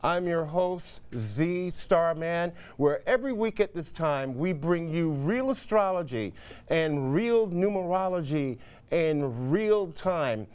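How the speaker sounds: upbeat broadcast host opening; TV host intro. Acted. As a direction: present it like a live TV show open. Host's TV show opening.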